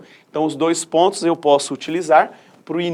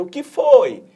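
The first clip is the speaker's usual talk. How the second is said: high, loud startled "O que foi?"; light comic surprise; startled question; 7 semitones higher, 8 dB louder, slower than usual. Acted. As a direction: ask it like a scared kid. Cebolinha asks, startled.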